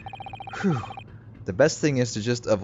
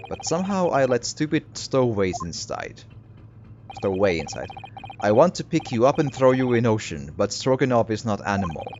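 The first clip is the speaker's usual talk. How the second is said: put-on lightly Russian-accented gruff threat; Russian-accented sailor. Sailor character voice.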